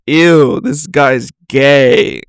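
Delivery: drawn-out mock-disgusted reaction; lightly hammed-up "ew". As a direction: imitate someone recoiling at a message, slowly. Imagined disgusted reader of message.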